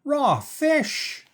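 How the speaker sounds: very high, squeaky cry of revulsion; disgusted scream. A narrator's reading. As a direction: squeal in horror at the taste. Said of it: "she screamed".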